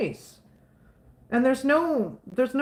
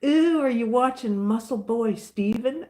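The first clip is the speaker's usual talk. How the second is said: teasing mock. Husband teasing her about Muscle Boy Steven, mocking. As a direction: rib her playfully. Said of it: "And he's like".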